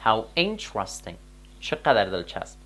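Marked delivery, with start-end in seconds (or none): 0.0-1.1 "How interesting" said very slowly, falling at the end; slow model phrase. Shown as a demonstration. ("How interesting" آهسته و کشیده)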